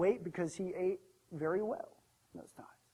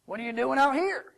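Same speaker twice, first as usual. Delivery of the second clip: high, incredulous demand; loud challenge; 5 semitones higher, 7 dB louder than usual. Acted. Servant demands why the son is here, loudly. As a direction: call it out in disbelief.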